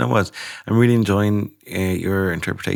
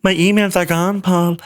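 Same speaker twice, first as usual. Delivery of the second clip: high, loud, helpless wail; a flustered worker calling for help; panicked colleague; 12 semitones higher, 5 dB louder, slower than usual. Retold or imitated. An office worker wailing to Paul at the IT desk, in a high panicked voice. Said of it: "people who are like".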